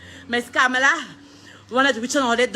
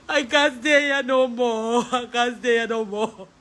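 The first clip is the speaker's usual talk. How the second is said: crying. Real, not acted. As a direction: let the tears break the words. Grieving sister wants to flee.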